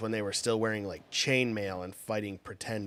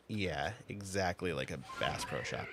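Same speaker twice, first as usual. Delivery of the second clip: deadpan sarcasm; 3 semitones lower, 5 dB quieter than usual. Retold or imitated. Sarcastic reply to coworker.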